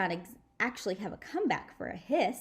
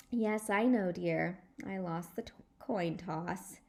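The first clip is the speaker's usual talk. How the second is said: annoyed. Acted. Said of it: "kind of annoyed".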